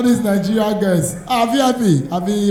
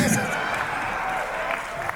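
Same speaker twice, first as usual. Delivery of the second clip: crowd laughter; 10 dB quieter than usual. Real, not acted. Audience laughs at stand-up joke.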